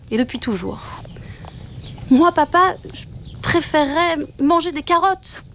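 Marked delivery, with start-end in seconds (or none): 2.1-5.4 higher, brighter cub voice; eager little wolf. A narrator's reading. Little wolf telling father wolf he prefers carrots, eager. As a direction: blurt out the wish hopefully.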